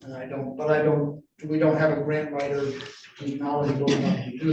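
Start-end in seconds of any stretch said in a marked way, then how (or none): none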